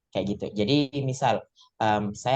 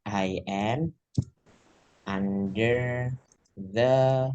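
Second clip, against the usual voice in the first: word-by-word model; much slower than usual. Shown as a demonstration. Teacher building a phrase for learners, word by word. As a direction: separate words with pauses between.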